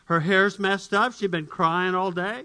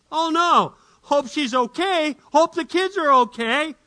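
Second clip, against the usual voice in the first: worried; 9 semitones higher, 4 dB louder than usual. Acted. Husband worries, no reply.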